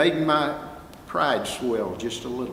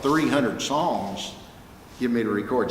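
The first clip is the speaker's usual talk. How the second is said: amazed. Real, not acted. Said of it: "I died and went to heaven".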